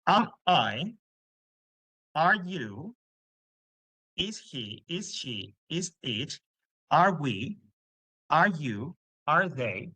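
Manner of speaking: rising question tune on each am I, are you, is he; question intonation. Shown as a demonstration. Teacher demonstrating English question intonation to the class, rising tune. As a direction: lift the end of every pair like asking. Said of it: "ahora tendríamos una entonación de pregunta".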